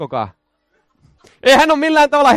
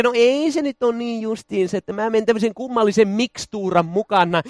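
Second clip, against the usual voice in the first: casual waverer; 5 dB quieter than usual. Acted. Voices a lax, undecided believer.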